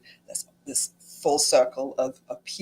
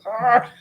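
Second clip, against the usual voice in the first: frustrated groan; 7 semitones higher, 5 dB louder than usual. Retold or imitated. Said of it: "It was like".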